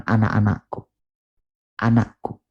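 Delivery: flat and distant, without tenderness; cold, stiff call. Shown as a demonstration. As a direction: say it like a formal order. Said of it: "dia tidak mengatakan". (panggilan datar dan dingin)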